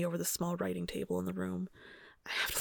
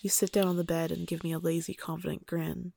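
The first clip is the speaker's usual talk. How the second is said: story narration. A narrator's reading. Reads erotic story aloud.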